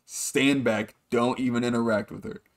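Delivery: a mock stern warning to an embarrassing friend; serious. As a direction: flip the switch and lay down the law. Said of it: "he gets so serious".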